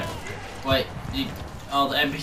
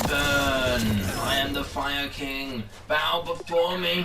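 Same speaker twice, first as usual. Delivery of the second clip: megalomaniac rant; 3 semitones higher, much slower than usual. Acted. Gamer roleplays fire king boast.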